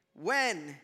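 "when" set apart, falling, with a pause after; stress on when. Shown as a demonstration. Preacher showing it is when, not if, stressed "when". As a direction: land firmly on "when" and let it hang.

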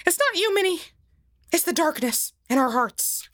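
Mickey Mouse voice. Acted. Mickey dramatic to Minnie.

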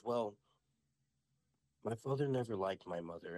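lightly imitated child witch, deadpan; daughter in character. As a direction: reveal it gravely after a long pause. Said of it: "she's talking just like this".

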